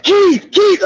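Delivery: high, urgent call of a name. Retold or imitated. Retelling mom phoning her son Keith, calling out.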